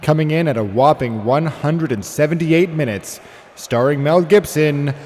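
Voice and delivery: building announcer call to a huge final shout; boxing announcer. Pretend. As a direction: call it like a ring announcer, roaring the title. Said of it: "announce the movies".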